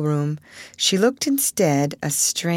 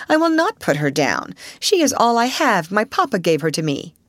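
cold steadiness; 4 semitones higher than usual. Acted. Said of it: "with a cold steadiness".

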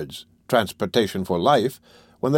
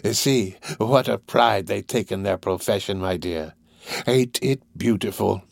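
lightly voiced old gang master, slow and gratified; Fagin, amused. Fagin praising the pride in their profession, amused. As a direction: savour it slowly, with admiration.

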